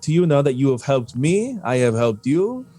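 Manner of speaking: a prim merchant fishing for a name; lightly voiced fussy shopkeeper.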